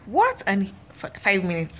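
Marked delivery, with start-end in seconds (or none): 0.1-0.4 jumps way up in pitch in disbelief; shocked what. Retold or imitated. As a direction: squeal it in disbelief. Disbelief at hearing the story.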